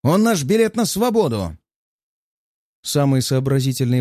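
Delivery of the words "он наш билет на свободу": higher, shrill-noted desperate cry; squealing panic. A narrator's reading. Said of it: "Его голос полон визжащих нот".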